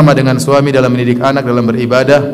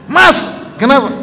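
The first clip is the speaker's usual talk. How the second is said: wife's worried question; 12 semitones higher than usual. Acted. Wife asks husband in story.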